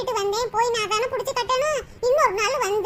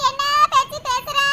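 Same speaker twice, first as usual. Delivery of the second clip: fake crying. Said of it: "அழுகாதீ அண்ணி".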